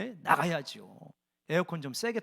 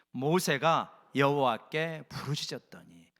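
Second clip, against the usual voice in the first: congregational reading; 4 semitones lower, slower than usual. Real, not acted. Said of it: "같이 읽어볼까요".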